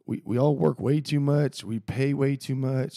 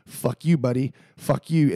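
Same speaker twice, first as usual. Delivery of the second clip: louder, snapping mock insult at a stuck driver; mock angry driver; 7 dB louder, slower than usual. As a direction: bark it like a rude driver. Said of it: "So everybody's like".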